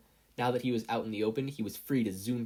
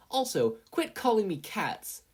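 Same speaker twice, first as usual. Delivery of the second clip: much higher, slow annoyed snap; irritated Katsuki; 11 semitones higher, 3 dB louder, slower than usual. A narrator's reading. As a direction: grumble it at your conscience.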